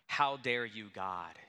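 voicing someone who accuses God; mock indignant demand. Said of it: "we say".

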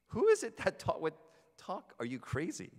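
high-pitched, incredulous questioning; acted disbelief, starting high and loud; curious. Samaritan woman questioning the man at the well, curious. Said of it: "She's curious".

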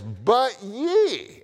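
YE stretched high and loud; emphatic YE. Retold or imitated. Preacher reading verse nine to his congregation, emphatic YE. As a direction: punch YE high, loud and long. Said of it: "and it's emphatic".

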